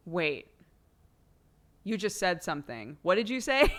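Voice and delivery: lightly imitated husband suddenly catching on; retold belated realization. Wife mimics her zoned-out husband catching on late, mock belated surprise. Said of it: "wait until he's like".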